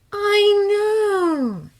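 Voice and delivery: put-on young woman soothing an upset friend. A narrator's reading. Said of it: "her voice was soothing".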